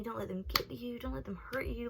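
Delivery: softly acted comforting adult; imitated reassurance. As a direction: gently hush an upset student, retold. Assistant principal consoles her, acted.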